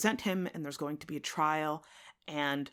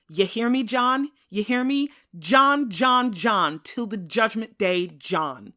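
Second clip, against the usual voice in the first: much louder and higher, repeating John's name; furious shout; 5 semitones higher, 9 dB louder than usual. Acted. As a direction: scream the name at him. Tom's defiance peaks in shouting.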